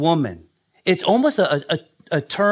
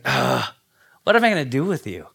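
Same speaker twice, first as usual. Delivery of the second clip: fast, mildly exasperated sigh; fond exasperation; 3 semitones lower than usual. Retold or imitated. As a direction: groan at a spouse, not angry. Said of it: "Not being angry, not being rude".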